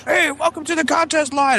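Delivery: high, slow mock radio host; contest line announcer. Friend imitates a radio contest line, in a high mock DJ voice. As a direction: sell it like a cheesy DJ.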